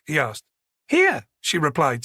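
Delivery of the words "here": high-pitched, smiling answer; smiling reply. A narrator's reading. Manager telling him she works right here, smiling. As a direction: answer with an audible smile, pitched well up.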